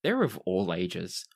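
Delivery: measured storytelling with deliberate pauses; game master narration. Acted. Game master sets the scene.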